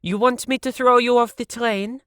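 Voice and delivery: high, loud challenge; threat. A narrator's reading. Siv threatening.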